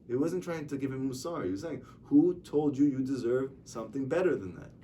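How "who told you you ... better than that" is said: pointed, louder earnest question; retold serious rebuke with emphasis; serious challenge. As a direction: put it to him firmly, in earnest. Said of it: "He was serious".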